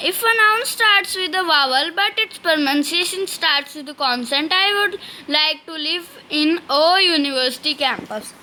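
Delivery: slow, spelled-out reading of the rule; slow dictation reading. Shown as a demonstration. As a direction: read it out word by word for students to copy. Teacher dictating rule slowly. (धीमी श्रुतलेख शैली में पढ़ना)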